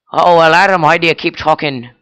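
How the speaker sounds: lightly put-on Irish voice; Irish accent. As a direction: pester him in a mock Irish accent. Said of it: "well, Irish Adam".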